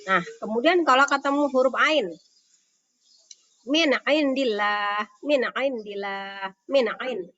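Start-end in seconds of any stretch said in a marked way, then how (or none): 3.7-7.3 "indillah" begun with a distinct throat ain after Min; long final a in "indillah"; clear ain. Shown as a demonstration. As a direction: recite "Min indillah" with an unhummed n. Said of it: "Ainnya jelas ya".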